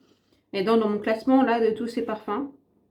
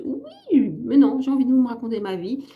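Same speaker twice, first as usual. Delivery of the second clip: higher, louder quick comeback; teasing defiance to the critics; playful protest; 3 semitones higher, 5 dB louder than usual. Real, not acted. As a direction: bounce back cheekily, fast. Playful rebuttal to imagined viewers.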